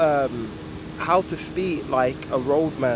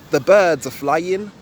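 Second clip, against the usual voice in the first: "The birds" drawn out, "are flying" quick; roadman quicker ending; 4 dB louder, slower than usual. Shown as a demonstration. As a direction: stretch "birds", rush "are flying", rising. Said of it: "You'd be like".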